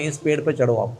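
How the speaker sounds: whispered in ear. Acted. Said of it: "बोलते कान में".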